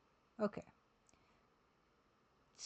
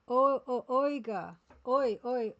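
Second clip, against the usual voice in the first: excited realization; 7 dB louder than usual. Real, not acted. Finally gets the word nephew.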